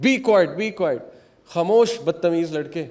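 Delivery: mild mock rebuke, voice lifted; retold scolding. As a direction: hush an insolent boy, acting it out lightly. Companions scolding the youth, retold.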